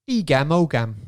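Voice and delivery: Cockney Australian twang on Welsh words. Pretend. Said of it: "the Cockney Australian twang".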